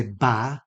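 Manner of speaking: ba with the a of match; short front vowel. Shown as a demonstration. Teacher showing what many people say, short vowel. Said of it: "as in match".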